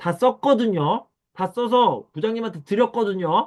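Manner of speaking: annoyed delivery. Demonstrating how an employee answers the boss, annoyed retort. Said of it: "짜증날 때".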